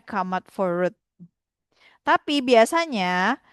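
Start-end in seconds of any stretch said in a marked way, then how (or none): 0.0-1.0 "come out for road" said as "kamat for rut"; pelafalan pidgin. Shown as a demonstration. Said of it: "dia ngomongnya". ("come out for road" dilafalkan "kamat for rut" ala pidgin)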